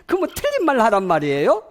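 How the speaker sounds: high, loud indignant question; mock protesting audience. Audience objecting to the lecturer's advice, mock indignant. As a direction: throw it back as an acted objection. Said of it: "그러면 여러분도 저보고 이럴 거다".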